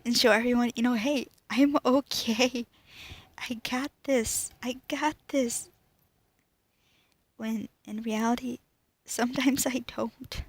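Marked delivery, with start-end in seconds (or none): 1.0-5.7 putting on a brave face. Retold or imitated. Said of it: "I like to smile and show everyone".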